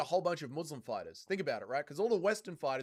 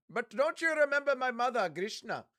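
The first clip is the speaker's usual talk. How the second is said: put-on little kid voice; 8 semitones higher, 4 dB louder than usual. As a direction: play a small child calling for his dad. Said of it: "Impression of Dougie having a kid".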